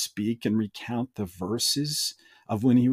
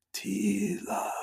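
very high, soft, hushed ghostly calling; 9 semitones higher, 8 dB quieter than usual. Narrating a scene where a voice calls out to teela, ghostly voice. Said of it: "as we hear a ghostly voice call out".

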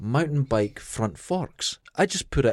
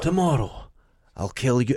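put-on breathy voice; 3 semitones lower than usual. Mocking a TV show's dialogue in clips: breathy Peaky Blinders impression. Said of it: "it's Peaky Blinders".

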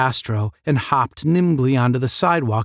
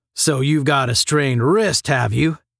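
scornful, jabbing, mocking, taunting tone. A man questions a new arrival who calls him sir; mocking. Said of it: "Asked Mike mockingly".

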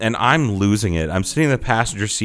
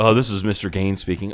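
put-on condescending professional phone voice. Imitating how the other speaker answers unknown calls: condescending phone answer. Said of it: "it's professional, but it's fucking condescending".

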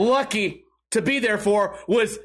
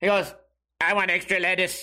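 weird, slower, robot-like voice; 4 semitones lower than usual. Retelling what a kid said, in a weird robotic voice. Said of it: "It's a weird robotic voice like this".

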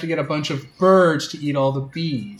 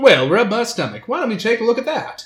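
put-on southern drawl, laid on thick, pitched up; 6 semitones higher than usual. Voicing a character at a festival corn contest: put-on southern accent. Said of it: "Why are you doing the southern thing again?".

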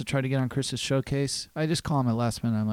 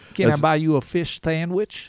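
mock lisping ladies' man voice; 3 semitones higher, 5 dB louder than usual. Trying out the co-speaker's ladies' man bit, doing a ladies' man lisp impression. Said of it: "That's not bad".

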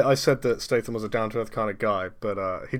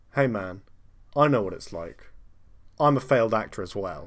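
usual speaking voice

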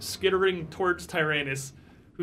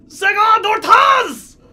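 screeching creature voice, much higher and louder; 11 dB louder than usual. Narrating the scene, the speaker voices a creature that screeches its call. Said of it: "It screeches out".

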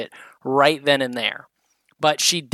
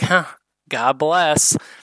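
heavy acted sarcasm, humoring, dismissive. Acting out a sarcastic reply to "God bless": imitating a sarcastic reply. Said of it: "she's very sarcastic with those".

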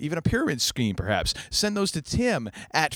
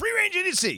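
high-pitched mock yelling. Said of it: "Just yell out".

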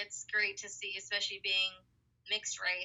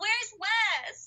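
put-on very high, squeaky child voice; 13 semitones higher, 7 dB louder than usual. Retelling what the little nieces say on the phone: imitating little squeaky kid voices. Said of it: "you can hear their little squeaky voices".

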